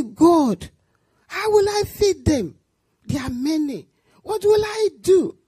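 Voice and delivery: high, pleading cry to God for help; crying prayer. Retold or imitated. Alone in the pantry, begging God to feed the children, crying. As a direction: beg God through tears, voice lifting. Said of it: "started crying".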